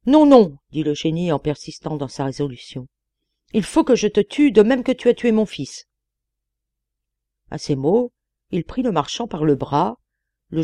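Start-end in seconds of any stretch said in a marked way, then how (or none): 0.1-0.6 booming loud threat; terrible genie voice. A narrator's reading. Old giant genie threatening the merchant, loud terrible voice. 3.5-5.9 booming loud threat; terrible genie voice. A narrator's reading. Old giant genie threatening the merchant, loud terrible voice.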